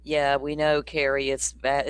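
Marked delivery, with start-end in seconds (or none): 1.3-1.9 speaking with the hiccups. Real, not acted. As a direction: say it between hiccups. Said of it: "I got the hiccups again".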